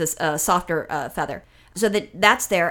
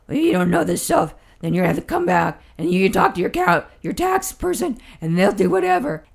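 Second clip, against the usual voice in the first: louder, lower scolding clerk; angry clerk; 3 semitones lower, 3 dB louder than usual. Retold or imitated. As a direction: brush the customer off, annoyed. Angry clerk voiced in story.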